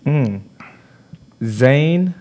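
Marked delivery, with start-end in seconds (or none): 1.4-2.1 game show host. Retold or imitated. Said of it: "I like your accent".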